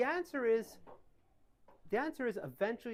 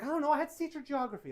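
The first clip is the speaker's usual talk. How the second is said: laughing excuse; 6 semitones higher, faster than usual. Retold or imitated. Laughing excuse to his wife.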